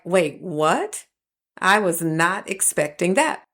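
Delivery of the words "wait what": startled disbelief, voice shifted; a friend caught off guard by an apology; shocked. Retold or imitated. A friend hearing an unexpected apology, shocked. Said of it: "looked at me with this look of shock".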